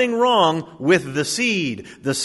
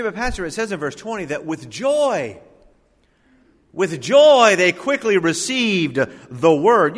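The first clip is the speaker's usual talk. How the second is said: objecting listener; 5 semitones higher, 5 dB louder than usual. Retold or imitated. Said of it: "You say".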